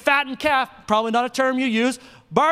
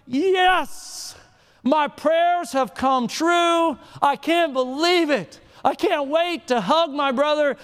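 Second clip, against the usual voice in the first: gushing with relief and joy; joyful older son; 3 semitones higher than usual. Acted. Older son to his father, hammed-up overjoyed gush. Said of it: "the older brother is like".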